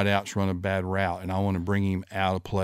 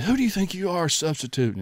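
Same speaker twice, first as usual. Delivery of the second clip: mock angry coach; 9 semitones higher than usual. Coach Bryant scolding, retold.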